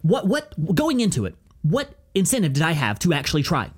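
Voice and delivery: lightly imitated mixed British accent; Andrew Tate. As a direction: do an offhand take on a muddled British accent. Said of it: "you fucking kinda sound like him".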